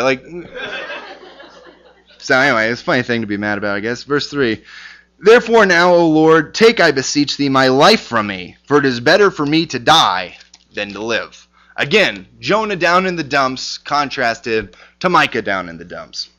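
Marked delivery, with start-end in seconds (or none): 5.2-11.5 louder earnest Bible reading; scripture reading. Acted. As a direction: read the plea with gravity. Reads scripture aloud.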